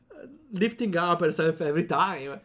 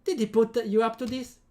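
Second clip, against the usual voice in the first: suspicious; 5 semitones higher than usual. Acted. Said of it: "Amy narrows her eyes suspiciously".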